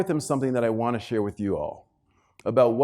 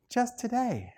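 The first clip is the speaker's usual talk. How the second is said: soft laughing refrain; 10 semitones higher, 7 dB quieter, slower than usual. Shown as a demonstration. Punchline repetition.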